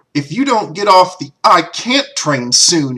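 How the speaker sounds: shrill, very loud, high, dumb-sounding bad put-on voice. Recalling an impression done when friends made excuses: bad Dr. Phil impression. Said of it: "what's probably a rather uh, bad and dumb impression of doctor Phil that I used to do".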